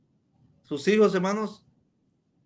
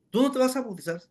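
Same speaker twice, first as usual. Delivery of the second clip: higher-pitched imitation of a scolding wife; mock telling-off; retold scolding; 6 semitones higher than usual. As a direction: forbid it like a wife telling off her husband. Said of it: "ya la señora regañándolo".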